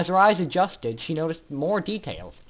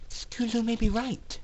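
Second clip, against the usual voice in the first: musing; 7 semitones higher, 3 dB quieter than usual. Acted. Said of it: "Aurora mused".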